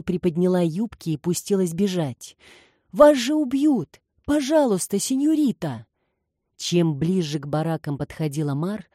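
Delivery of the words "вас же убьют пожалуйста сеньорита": desperate pleading cry. A narrator's reading. Maid begs her mistress to come with them, frightened and higher. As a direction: plead with her not to run off to her death.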